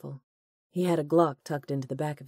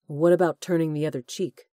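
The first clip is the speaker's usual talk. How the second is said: demanding; 6 dB louder than usual. Acted. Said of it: "Corbin demanded".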